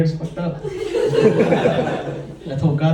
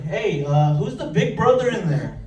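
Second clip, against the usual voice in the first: mock instigating; 5 semitones higher, slower than usual. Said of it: "I was like".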